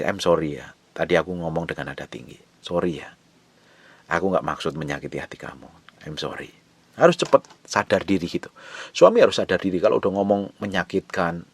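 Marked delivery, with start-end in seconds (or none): 0.0-6.6 soft, quiet apology to his wife; gentle apology. Retold or imitated. Husband softly apologizing to his wife after raising his voice. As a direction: say sorry softly, meaning it. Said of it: "Saya samperin istri".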